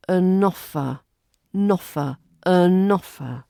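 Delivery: "an offer" run together as uh-noffer; "an offer" with the n linked on. Shown as a demonstration. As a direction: glide the n into "offer". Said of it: "the n from the an joins the offer word".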